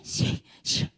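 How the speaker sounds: hissy mock sobs, no voice; imitated crying. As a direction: imitate a child's sobbing in short breathy bursts. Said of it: "하면서 막 울더라고요". (흑흑 우는 아이 흉내)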